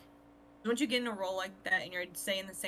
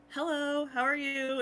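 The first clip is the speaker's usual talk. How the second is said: high, louder retold greeting; cheery English greeting; 7 semitones higher, 5 dB louder, slower than usual. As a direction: greet the shopkeeper in a high, put-on voice. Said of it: "I'll just be like".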